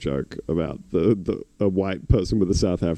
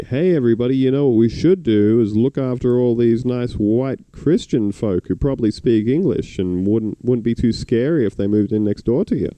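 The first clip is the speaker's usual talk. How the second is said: higher, louder, hammed-up rally call; mock loudhailer politician; 5 semitones higher, 4 dB louder than usual. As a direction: bellow it like a smug campaigner through a megaphone. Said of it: "get on the old racism loudhailer".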